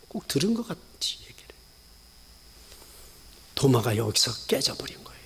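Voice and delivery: soft unvoiced whisper; hushed whisper. Real, not acted. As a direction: lean in and whisper. Hushed aside.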